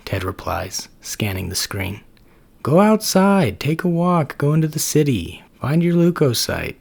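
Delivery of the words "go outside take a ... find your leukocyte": high, loud, eager pep-talk voice; Max the macrophage. Acted. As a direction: push him out the door, bright and pitched up. Max urging Ted to go out.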